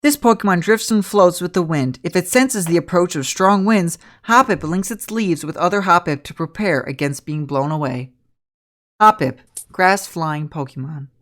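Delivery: measured encyclopedia narration; Pokédex entry read. Acted. Game master reads Pokédex to players, measured encyclopedia tone.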